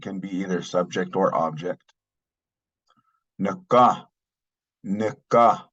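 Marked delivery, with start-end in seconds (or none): 3.4-5.6 Nika, both syllables clear; model pronunciation. Shown as a demonstration. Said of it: "means my".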